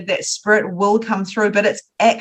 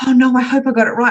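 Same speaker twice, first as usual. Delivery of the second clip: anxious worry; 4 semitones higher, 4 dB louder, faster than usual. Retold or imitated. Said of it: "I used to be like".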